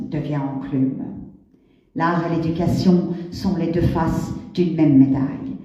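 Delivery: declaimed verse with deliberate pauses; solemn spoken-word poetry delivery; poem recitation. Acted. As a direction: recite it line by line, letting each phrase ring and fall. Recites her own poem.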